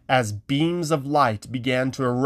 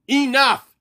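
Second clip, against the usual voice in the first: very high, loud Enough; Haggerty silencing the quarrel; commanding; 13 semitones higher, 7 dB louder than usual. Acted. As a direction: cut them all off. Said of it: "Haggerty announced".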